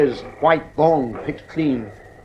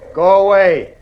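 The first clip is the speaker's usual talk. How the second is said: firm command; 5 semitones higher, 5 dB louder than usual. Acted. Husband orders the lions away.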